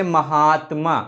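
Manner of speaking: महात्मा said a little slowly, leaning on the long आ; long middle vowel. Shown as a demonstration. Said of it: "दीर्घता का उच्चारण करेंगे".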